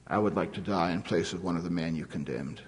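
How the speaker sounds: soft and low, gently offered; spoke softly. A narrator's reading. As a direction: say it quietly and humbly. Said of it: "spoke softly to the Nazi butcher".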